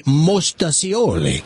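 MOSTACIOLI with an s sound for the ch; regional Italian variant. Shown as a demonstration. Host explaining parts of Italy, regional Italian pronunciation. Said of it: "Some parts of Italy".

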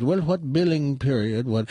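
lightly imitated Indian-accented agent; puzzled agent's question with a mock Indian accent. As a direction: ask it in a put-on Indian accent. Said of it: "I'm doing an Indian accent".

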